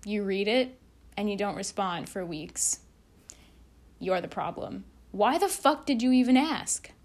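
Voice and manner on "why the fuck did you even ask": loud, higher, indignant outburst; exasperated rant. Real, not acted. Vlogger ranting at time-wasters, exasperated and loud. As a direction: let the frustration burst out.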